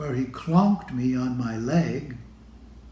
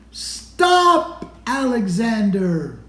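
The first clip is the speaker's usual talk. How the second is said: high, loud mock shout of his name; 6 semitones higher, 5 dB louder, slower than usual. Someone at the music shack yelling at Alexander, high loud shout. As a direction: call out sharply, as a grown-up telling a child to stop. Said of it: "I hear someone shouting".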